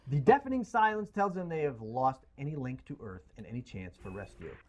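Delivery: dramatic movie-trailer read; trailer voiceover. Acted. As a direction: narrate it like a film trailer. Reads Gravity synopsis.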